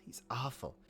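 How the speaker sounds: a quiet rueful echo of "he's awful". Real, not acted. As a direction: drop it away, half to yourself. Repeats, second time quieter.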